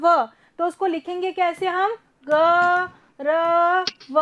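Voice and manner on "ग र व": ग, र, व said as three separate sounds; split letters. Shown as a demonstration. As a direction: spell it out letter by letter as the wrong way. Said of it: "ये wrong हो जाता है". (ग र व अलग अलग बोलना)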